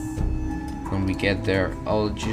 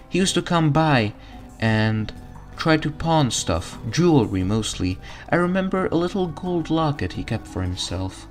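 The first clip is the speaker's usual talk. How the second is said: higher, cheerful mom voice; motherly diner cook; 6 semitones higher than usual. Acted. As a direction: dote on the hungry customer. Mom NPC speaks.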